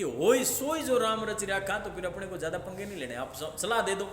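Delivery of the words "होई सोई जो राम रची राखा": recited mantra. Shown as a demonstration. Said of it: "बार बार शब्द को रट ले".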